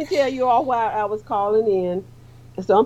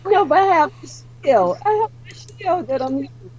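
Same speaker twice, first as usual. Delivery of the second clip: muffled behind a shield; 9 semitones higher than usual. Real, not acted. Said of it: "you sound really weird".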